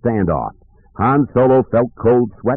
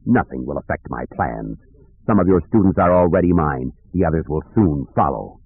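lightly voiced villain, lowered; assured dark lord, lightly played; menacing dark lord; 3 semitones lower than usual. Dark lord taunts Luke.

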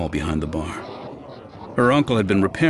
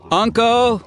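high loud call across the room; 6 dB louder than usual. Acted. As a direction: call out to him across the bar. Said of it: "Dara called in the direction of the bar".

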